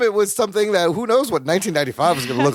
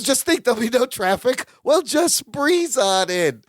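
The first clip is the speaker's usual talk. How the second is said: Mister Brave bravado; 6 semitones higher than usual. Retold or imitated. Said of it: "all Mister Brave".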